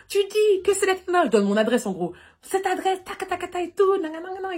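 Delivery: high, loud, hurried shouting into the phone. Retold or imitated. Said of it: "je crie au téléphone".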